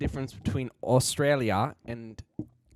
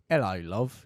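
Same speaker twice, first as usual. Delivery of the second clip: mock British greeting; British accent; slower than usual. Imagined Queen knocks on a door, mock British accent. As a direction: put on a silly British accent. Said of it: "I lost my British accent".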